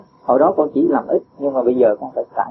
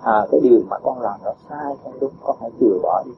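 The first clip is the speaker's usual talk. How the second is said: gentle advice; 3 semitones lower than usual. Shown as a demonstration. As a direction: model how to correct a child kindly. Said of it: "Con nói nhẹ nhàng thôi".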